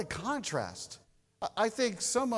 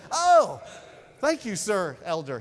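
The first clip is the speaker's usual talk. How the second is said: hammed-up grateful thanks, much louder; an overdone "thank you, sir"; mock gratitude; 8 dB louder than usual. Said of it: "I was like".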